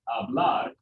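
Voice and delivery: "hablar" stressed at the end, ha-BLAR; stress on last syllable. Shown as a demonstration. Teacher giving an example verb, stress on last syllable. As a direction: land the weight on BLAR in "hablar". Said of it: "accent on that last syllable".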